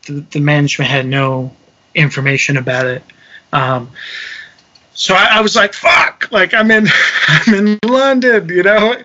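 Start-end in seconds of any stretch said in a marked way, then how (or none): 5.7-6.3 retold burst of exasperation; sudden, voiceless cry of frustration; exasperated curse. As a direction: blurt it out in mock dismay. Stranded abroad, retold cry of dismay.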